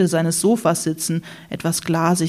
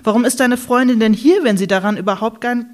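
heated self-defence; 3 semitones higher, 3 dB louder than usual. Acted. Ulla defends herself, heated.

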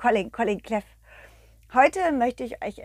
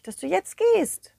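whisper; 9 semitones higher than usual. Acted. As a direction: breathe the words out. Whispered sad goodbye. (geflüstert)

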